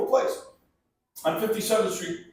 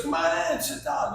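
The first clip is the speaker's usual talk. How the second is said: higher-pitched imitated friendly host; friendly welcome; 6 semitones higher than usual. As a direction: play the host being nice, voice lifted. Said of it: "he's real nice at first".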